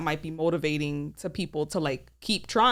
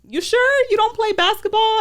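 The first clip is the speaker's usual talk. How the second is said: mock pushy guy; 13 semitones higher, 6 dB louder than usual. Guy's pushy question retold.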